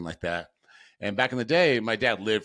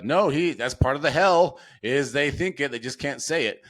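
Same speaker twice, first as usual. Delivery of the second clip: doctors explaining; 6 semitones higher, 4 dB louder than usual. Retold or imitated. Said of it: "they tell you".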